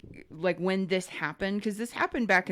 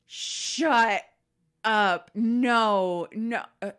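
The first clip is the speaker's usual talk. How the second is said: retold disbelief; slower than usual. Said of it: "he was just like".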